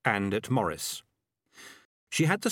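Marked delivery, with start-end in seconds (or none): none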